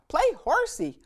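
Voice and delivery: put-on high, loud little-girl plea; small cub begging her papa for a horsey ride; little Honey. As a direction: beg like a tiny cub wanting a ride. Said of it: "said Honey".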